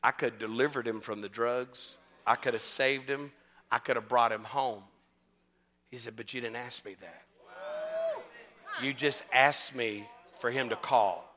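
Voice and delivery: low, soft divine reply; voice of God. Retold or imitated. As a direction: speak as God, quiet and measured. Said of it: "You know what God told me".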